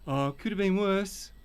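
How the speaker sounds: slow, sing-song parody of the stock phrase; mock his catchphrase slowly; mocking repeat. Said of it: "you just say the same thing".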